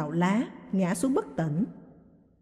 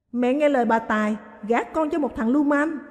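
crying; 3 semitones higher than usual. Acted. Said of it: "Mộng Lan khóc lớn".

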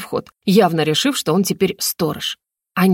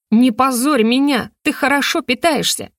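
exasperated scolding; 6 semitones higher than usual. Acted. Heroine scolding her deer for eating the drum, exasperated. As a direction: scold the deer, losing patience. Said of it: "не сдержалась я".

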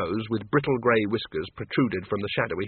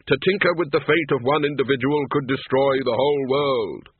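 Death's grave voice. Acted. Death explains to Miss Flitworth why he won't help, grave. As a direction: state fate as cosmic law.

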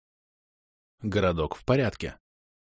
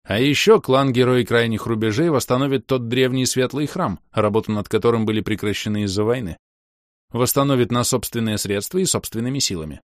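loud and clear; 3 semitones higher than usual. Acted. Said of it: "заявил громко и отчётливо".

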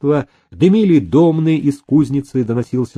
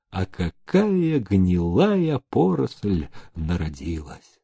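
dismayed; 2 semitones lower, 4 dB quieter than usual. Acted. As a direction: lament it under your breath. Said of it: "он сокрушённо думал". (сокрушённо, вполголоса)

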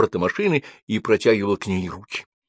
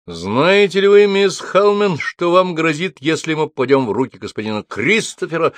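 anxious question; 8 semitones higher, 4 dB louder than usual. A narrator's reading. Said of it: "с тревогой поглядывая".

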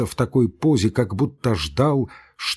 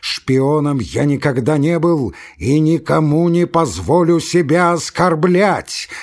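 louder cry, stress on "оскорблять" slow and high; quavering shout; 5 semitones higher, 5 dB louder than usual. Acted. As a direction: hit "оскорблять" hard and drawn out. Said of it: "крикнул он дребезжащим голосом, делая ударение на последнем слове".

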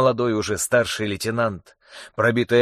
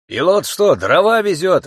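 indignant yell, pitched up; indignant shout; 7 semitones higher, 5 dB louder than usual. A narrator's reading. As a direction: shout it out, outraged. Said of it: "возмущённо крикнул".

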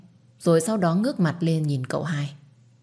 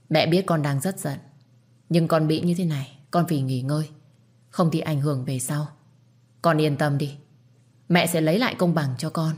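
reassuring. Acted. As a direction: comfort her calmly. Mother comforts daughter-in-law. (dịu dàng an ủi)

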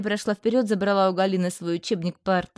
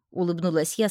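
usual speaking voice

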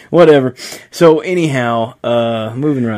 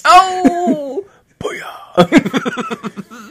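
excited cheer. Real, not acted. Celebrating a burn on stream.

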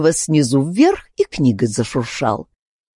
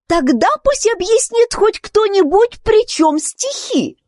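much higher, rising toward a shout; breaking into a shout. Acted. Alice rises and demands an explanation, rising to a high shout. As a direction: demand an answer, building to a cry. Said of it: "Переходя на крик".

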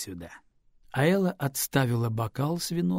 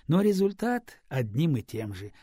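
ordinary delivery, nothing marked

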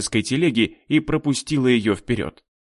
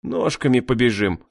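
plain reading voice

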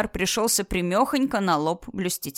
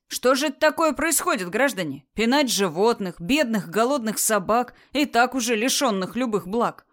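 fiery revolutionary speech; 3 semitones higher than usual. Acted. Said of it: "произнося свою пламенную речь".

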